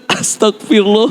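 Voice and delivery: drawn-out, high tearful outburst; mock crying. Husband finally alone in the bathroom, mock sobbing. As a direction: act out breaking down at last. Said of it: "Nangisnya nanti".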